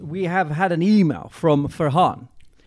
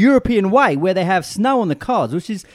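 Farhan's voice. Retold or imitated. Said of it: "Do it in Farhan's voice".

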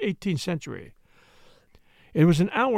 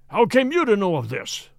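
louder, shaken outcry; startled baronet crying out at Holmes; cried; 3 semitones higher, 6 dB louder than usual. A narrator's reading. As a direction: blurt it out in alarm. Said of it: "he cried".

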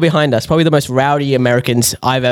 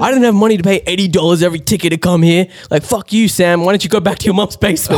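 higher, mildly indignant retort; mock comeback; 4 semitones higher than usual. Imitating the girl's comeback to Sam, indignant. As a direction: imitate a woman telling off a heckler. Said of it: "the girl won".

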